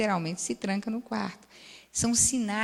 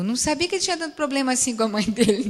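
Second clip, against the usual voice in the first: laughing; 3 semitones higher, 5 dB louder, faster than usual. Retold or imitated. Patient amused by husband's issues.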